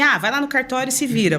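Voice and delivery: mock brusque brush-off, pitched a bit up; imitated rudeness. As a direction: retell it as a curt dismissal. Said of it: "grossa nem seca".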